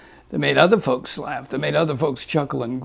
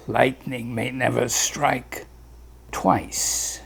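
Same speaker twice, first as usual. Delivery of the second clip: Doctor Leguise; 3 semitones lower than usual. Acted.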